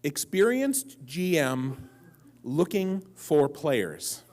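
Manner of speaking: slow, measured read-out of an ad; personals ad. Retold or imitated. Man reading out his own personals ad, slow and deliberate. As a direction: announce it slowly, spacing out the words. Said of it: "here's my personals ad".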